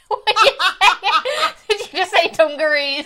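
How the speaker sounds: high incredulous laughing question. Real, not acted. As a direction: giggle through the question. Friend mishears, cracks up.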